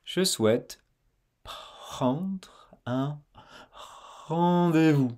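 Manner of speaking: Je souhaite prendre un rendez-vous with a feather-light R; very soft. Shown as a demonstration. Teacher insisting the R stay very soft. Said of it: "Faut que ce soit très doux".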